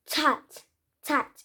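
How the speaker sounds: "tat" with a hard T; wrong version. Shown as a demonstration. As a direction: imitate the mistake "tat". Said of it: "But don't make it".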